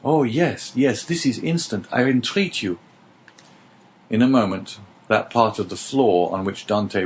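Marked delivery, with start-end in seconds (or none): 0.0-2.8 higher, urgent entreaty; eager pleading. Acted. Dante begs his neighbour to start digging at once, eager. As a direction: urge him on, impatient.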